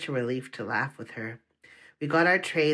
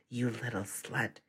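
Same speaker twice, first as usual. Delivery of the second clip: whispered; 3 semitones lower, 7 dB quieter than usual. A narrator's reading. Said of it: "he whispered".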